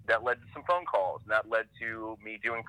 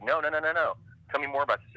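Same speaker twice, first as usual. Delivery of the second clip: higher, quick-fire mock protest; eager insistence; 5 semitones higher than usual. Designer keeps the cartoonist talking at the mixer, eagerly insistent. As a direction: re-enact someone waving away the objection, keen to hear more.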